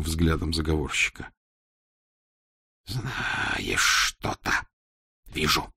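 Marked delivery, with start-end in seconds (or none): 2.9-5.7 slow breathy whisper. Acted. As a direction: whisper it knowingly. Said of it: "шепнул Маслов".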